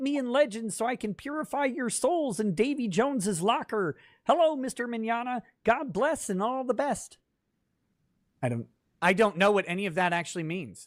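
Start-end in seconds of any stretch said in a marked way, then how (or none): 0.0-7.2 pitched up and taken slowly. Reading out a viewer's message: Kermit the Frog voice. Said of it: "the Kermit voice on it".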